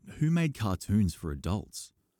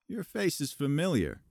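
polite; 9 semitones higher than usual. Acted. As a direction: politely place a face. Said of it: "he said politely".

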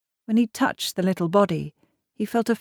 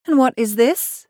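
higher, louder curious question; interested; 6 semitones higher, 5 dB louder than usual. A narrator's reading. Young wife spies the bundle in the wagon, interested. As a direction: voice lifts with keen interest. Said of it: "Megan asked with interest".

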